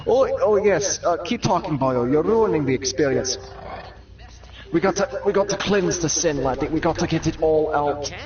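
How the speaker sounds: Irish priest. Acted. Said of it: "Father O'Brien".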